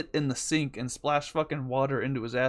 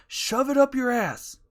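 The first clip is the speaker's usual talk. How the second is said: slow, louder, higher fed-up snap; angry retort; 10 semitones higher, 4 dB louder than usual. Retold or imitated. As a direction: spit each word out at the pest. Yelling at annoying brother.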